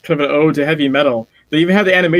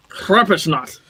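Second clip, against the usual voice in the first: German accent; 2 semitones higher, slower than usual. Shown as a demonstration. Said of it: "Gotta get the German".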